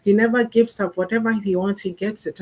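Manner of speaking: lightly voiced bragging mother; proud mother. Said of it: "the mom stands there proudly saying".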